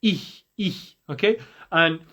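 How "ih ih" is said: ih breathed out from the chest; breathy ih. Shown as a demonstration. Teacher showing students the chest ha. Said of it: "breathing out from your chest".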